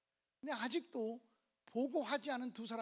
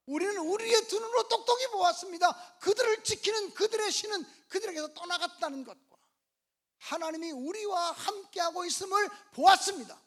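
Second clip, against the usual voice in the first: loud, high-pitched declaration of faith; impassioned preacher's shout; rousing proclamation; 6 semitones higher, 9 dB louder than usual. Acted. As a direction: proclaim it at full force to win an amen. Repeats the report forcefully for amen.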